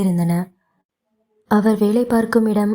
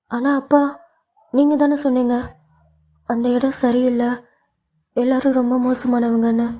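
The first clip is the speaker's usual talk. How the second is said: higher, urgent daughter voice; anxious daughter; 4 semitones higher than usual. Acted. Daughter anxiously reminding her father, higher urgent voice. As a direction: remind him of his own warning.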